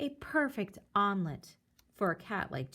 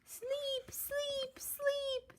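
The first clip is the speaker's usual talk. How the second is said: very high, much softer sleepy voice; tired whisper; 8 dB quieter, much slower than usual. Acted. Tired babies at the nest, soft sleepy whisper. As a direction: breathe it out sleepily. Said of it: "the tired babies finally whispered".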